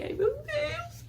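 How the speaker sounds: high, drawn-out mock wail; choro imitado. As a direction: act out breaking down in happy tears. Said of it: "já comecei a chorar". (choro encenado, agudo e arrastado)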